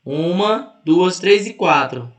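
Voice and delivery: counting out. Shown as a demonstration. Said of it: "São quantas sílabas aqui?".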